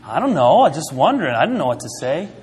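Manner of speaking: mock-helpless reply with swooping pitch; lightly acted cluelessness; flustered self-defense. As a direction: plead ignorance, voice bobbing up and down. Acting out his reply to group.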